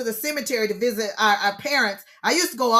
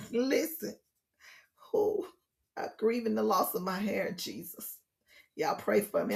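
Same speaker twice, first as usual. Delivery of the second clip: mock lament; 3 semitones lower, 10 dB quieter than usual. Joking about losing her hair.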